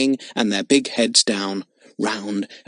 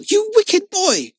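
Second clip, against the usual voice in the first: put-on slow, high, louder little-girl accusation; angry cry; 4 dB louder, slower than usual. A narrator's reading. Girl scolding the boy who took her monkey. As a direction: fling it at him in outrage. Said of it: "cried the little girl".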